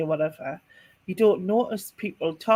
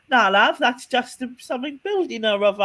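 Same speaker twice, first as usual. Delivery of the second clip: put-on cheery London cabbie in a Cockney accent; Cockney taxi driver brushing it off; 4 semitones higher than usual. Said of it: "That's my best Cockney now".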